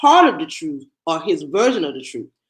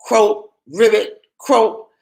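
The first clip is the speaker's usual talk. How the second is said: mad frog croak; 3 dB louder, much slower than usual. Acted. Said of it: "That's one mad frog".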